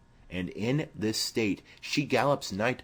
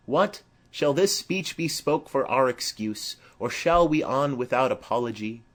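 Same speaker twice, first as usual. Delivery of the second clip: Romeo voiced higher and louder, eager; lively Romeo; 5 semitones higher, 5 dB louder than usual. Romeo asks his friends, eager and higher.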